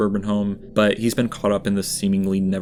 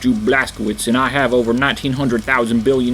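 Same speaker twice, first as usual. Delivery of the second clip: louder, put-on brash hero voice; mock war hero; 3 semitones higher, 5 dB louder than usual. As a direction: scoff at the request like a self-important soldier. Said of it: "the conversation in-game went something like this".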